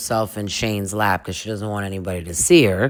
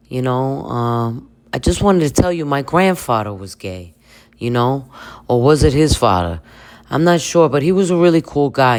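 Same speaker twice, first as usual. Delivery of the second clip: put-on earnest drunk guy; 3 semitones higher than usual. Jason telling Venus about his grandfather, earnest ramble. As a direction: pour your heart out, a little sloppy.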